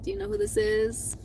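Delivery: nervous high soft asking; a small high voice testing the waters; high tentative question. Retold or imitated. Calling his ex after being blocked, nervous and high.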